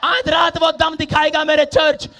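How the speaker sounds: loud, driving sermon delivery; fiery preaching. Acted. Pastor rousing his church about healing tonight, full-force preaching. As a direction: preach it out to the congregation.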